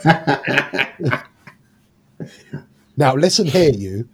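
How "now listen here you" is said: a crisp disapproving governess, lightly done; slightly more stern. Shown as a demonstration. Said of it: "Just slightly more stern".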